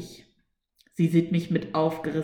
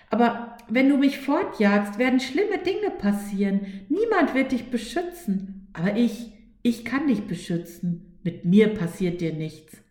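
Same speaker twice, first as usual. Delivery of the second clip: higher, insistent voice of fear, half warning, half coaxing; whisper-close menace turned into a promise, pitched up; ominous fear voice; 5 semitones higher than usual. Acted. Fear threatens, then offers protection.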